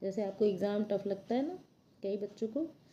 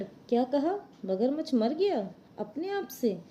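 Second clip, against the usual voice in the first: surprised jackal; 4 semitones higher, slower than usual. Acted. Jackal hears the crocodile died.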